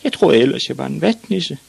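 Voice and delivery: put-on high-pitched little boy voice; grumbling boy. A narrator's reading. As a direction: answer back as the small son. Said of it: "mumlede Ivan".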